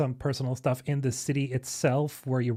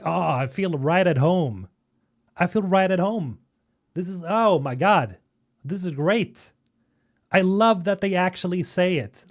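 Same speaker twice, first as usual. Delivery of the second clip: louder, gushing with excitement; real excitement; 4 semitones higher, 5 dB louder than usual. Real, not acted. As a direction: let real excitement swell on each exclamation. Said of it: "makes me excited".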